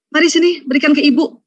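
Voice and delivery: put-on gently reach for the baby; caring mother. Mother offering to take grandchild, lightly voiced coaxing. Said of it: "Kalau ibu kamu gimana?".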